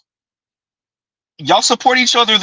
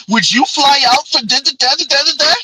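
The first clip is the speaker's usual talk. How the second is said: mock high voice; 8 semitones higher than usual. Mocking women's support talk.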